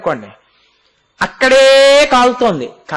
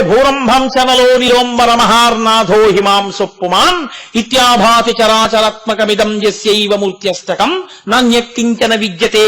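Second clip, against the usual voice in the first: Sanskrit verse recitation. Acted. Preacher quoting the Dakshinamurti hymn to devotees, verse recitation. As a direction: recite the hymn in steady metre.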